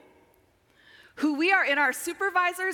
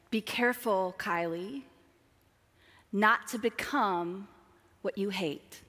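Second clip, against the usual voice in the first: gentle warning; 3 semitones lower, 3 dB quieter than usual. Retold or imitated. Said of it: "She often looked at me and said".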